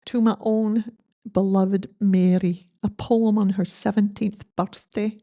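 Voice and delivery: put-on light Scottish accent reading a begging poem. Eulogist reading dad's poem aloud, light Scottish accent. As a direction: lilt the lines in a gentle Scottish accent. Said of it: "Great Scottish accent".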